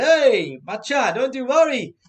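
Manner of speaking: loud swaggering hero line, collar up; South Indian film hero. Pretend. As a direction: play the cocky film hero reassuring his buddy. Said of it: "Like a South Indian hero".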